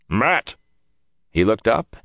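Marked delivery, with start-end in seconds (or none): 0.1-0.5 calling out. A narrator's reading. Tom calling down to Matt.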